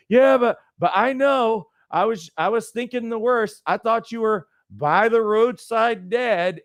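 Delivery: mom insisting she imagined the worst; fretting mom. Retold or imitated. Mom on phone to grown son, high and anxious.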